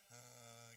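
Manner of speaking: low, soft "heh"; tiny restrained token laugh; minimal mock chuckle. Teacher imitating a quiet laugher, low mock chuckle. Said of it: "antara orang terbahak-bahak dengan yang".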